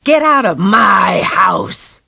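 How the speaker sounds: drawn-out furious shout; possessed boy shouting the priest out of the house; slow shout. A narrator's reading. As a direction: bellow each word slowly. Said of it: "Jared screamed".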